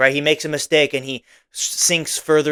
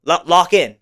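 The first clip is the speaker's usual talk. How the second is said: louder, sharp call to snap a player awake; mock coach yell; 3 semitones higher, 5 dB louder than usual. Coach calling out an unfocused player, mock yell. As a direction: bark it across the field at a drifting teammate. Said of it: "You need to maybe scream at him".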